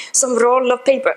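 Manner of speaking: French accent attempt slipping towards German; poorly imitated French accent, oddly German; botched French accent. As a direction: have another go at a bad French accent. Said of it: "No, that's German, sorry".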